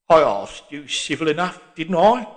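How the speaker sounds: put-on gruff old Londoner, indignant; old cockney getting his back up; pugnacious old man. A narrator's reading. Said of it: "straightening his shoulders pugnaciously".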